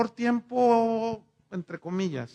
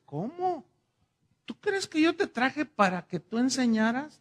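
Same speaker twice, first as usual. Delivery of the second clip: sorpresa; 6 semitones higher than usual. Retold or imitated. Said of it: "le dije".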